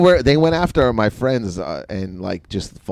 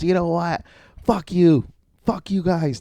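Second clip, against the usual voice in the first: retold heckler; 8 semitones higher than usual. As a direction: imitate an indignant heckler without shouting. Retold heckler cursing the group.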